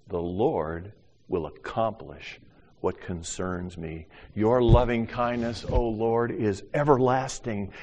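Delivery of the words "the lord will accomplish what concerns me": softer slow repeat. Acted. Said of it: "here's the little clause".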